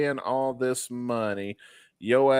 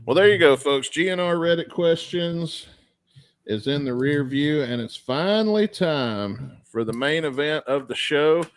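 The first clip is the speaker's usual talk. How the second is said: show host announcement; 3 semitones higher than usual. Real, not acted. Host wrapping up listener questions for the main event, announcer style.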